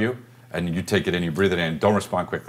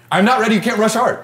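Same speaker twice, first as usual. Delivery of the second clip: a pitched-up, pleading artist who won't be hurried; high whiny protest; 13 semitones higher, 5 dB louder than usual. Real, not acted. Painter friend refuses to be rushed, squealing high. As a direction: squeal it much higher and louder, like a fussy artist.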